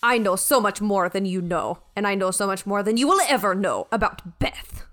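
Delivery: measured, self-assured ship's mind; a hint of haughty superiority; lightly voiced imperious Beth. Beth schooling the crew on the bridge, lightly haughty.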